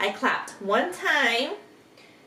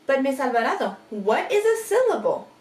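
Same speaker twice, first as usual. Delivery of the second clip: lightly voiced pupil, higher pitch; pupil's question; 3 semitones higher, much faster than usual. Pupil asking the teacher what syllables are, lightly acted. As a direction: pipe up with a quick, high question.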